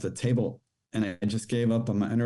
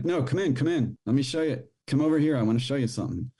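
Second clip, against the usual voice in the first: higher, insistent coaxing; imitating the man's pushy invitation; a retold man luring him in, eager and insistent; 5 semitones higher, faster than usual.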